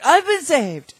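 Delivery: loud, high proclaiming shout; imitating a drunk man's ecstatic outburst; drunken hallelujah. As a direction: belt it out like a drunk who just found religion. Drunk man testifying at meeting.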